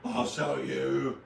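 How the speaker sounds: slow, drawn-out put-on menace; hammed-up slow threat; mock racist voice. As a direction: stretch it out like a caricatured bigot. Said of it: "act like a racist who talks that way".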